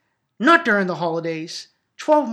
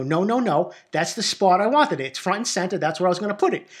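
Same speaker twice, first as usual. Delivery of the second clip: higher, insistent retold argument; insistent objection; 3 semitones higher than usual. Brother defending his chosen spot to sister, insistent. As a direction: argue stubbornly, as in a childhood squabble. Acted sibling quarrel over tree spot.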